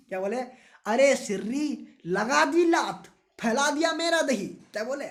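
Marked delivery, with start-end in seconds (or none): 0.9-4.5 higher, louder slow scolding; hammed-up fury at the partner; mock angry yell. Student scolds partner for spilling curd, loud mock yell. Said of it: "चिल्ला के बोले".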